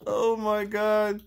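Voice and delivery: slow, mouth full of candy; struggling through sour candy; eating sour candy. Real, not acted. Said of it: "Oh, mommy can't talk".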